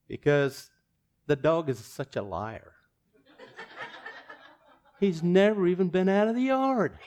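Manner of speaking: punchline with a laugh breaking in. Retold or imitated. Owner explains the cheap price, laughing through it. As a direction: deliver it while cracking up.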